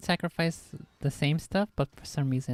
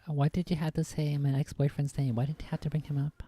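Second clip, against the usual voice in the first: meme quote. Pretend. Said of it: "you're doing the meme".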